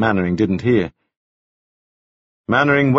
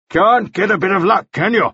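higher, dry mocking jab; wry Mannering; 10 semitones higher than usual. A narrator's reading. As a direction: needle him a little. Mannering mocking bad luck.

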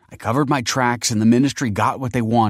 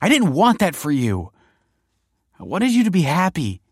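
high, loud, desperate outburst; impassioned protest; 13 semitones higher, 8 dB louder than usual. A narrator's reading. Kelsey insists she spared him a hard life, impassioned. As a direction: justify yourself at full pitch. Kelsey's heated, tearful self-defence.

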